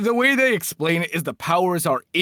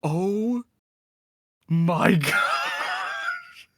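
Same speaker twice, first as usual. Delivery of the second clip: laughing in disbelief; 5 semitones higher, much slower than usual. Real, not acted. Shocked reaction to a reveal.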